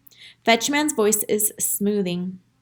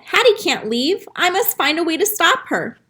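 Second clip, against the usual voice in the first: desperate; 7 semitones higher than usual. Acted. Dog desperate, Hattie leaving.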